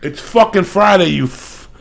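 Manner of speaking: loud, high yelling out at passers-by; rowdy taunting shout; real shout. Real, not acted. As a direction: bellow at them from the window. Yelling at guys on the street.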